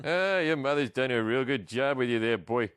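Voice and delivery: a light Cliff Clavin, folksy and chummy; lightly voiced Boston barfly buddy; a hint of the mailman from Cheers; Cliff Clavin impression. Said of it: "I just did a Cliff Clavin impersonation".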